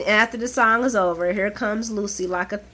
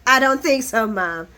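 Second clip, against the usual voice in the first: louder, insistent chant of no; firm repeated refusal; 3 semitones higher, 5 dB louder than usual. Retold or imitated. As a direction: hammer the refusal at mom. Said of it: "They're like".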